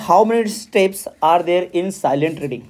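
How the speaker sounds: reads the exam question aloud slowly and deliberately; slow question reading. Acted. Teacher reading a quiz question to students, slow and deliberate. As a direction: dictate each word of the question slowly.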